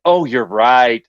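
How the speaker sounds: drawn-out, condescending mock concession. AI answering back to a corrected user, condescending. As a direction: patronize them with a slow "oh". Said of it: "like, with a condescending".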